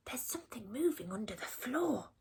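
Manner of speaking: soft, hushed whisper. A narrator's reading. Percy telling the animals about the noise, soft whisper. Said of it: "whispered Percy".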